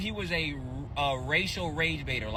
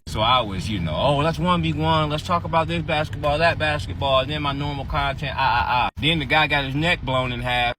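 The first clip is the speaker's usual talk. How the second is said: wearing a retainer; 6 semitones lower than usual. Real, not acted. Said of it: "I got my, uh, retainers in, so I might be talking a little weird".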